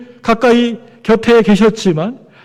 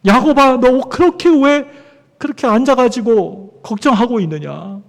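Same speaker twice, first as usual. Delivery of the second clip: God chiding Jacob; 3 semitones higher than usual. Acted. Preacher voices God chiding Jacob.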